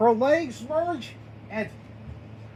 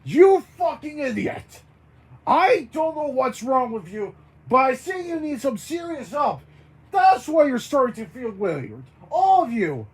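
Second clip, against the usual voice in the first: raised-voice angry scolding; yelling; 5 dB louder than usual. Acted. Bert berates the baroness for being an idiot, angry yelling. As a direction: tell them off loudly, with a touch less force. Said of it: "Bert yells to Baroness von Von Bon".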